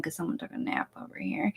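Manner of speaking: teasing stage whisper. Real, not acted. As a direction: whisper it to the listeners like a secret. Teasing partner about nap.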